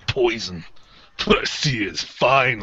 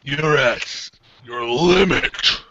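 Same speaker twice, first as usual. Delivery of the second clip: villain voice; slower than usual. Acted. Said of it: "done the voice".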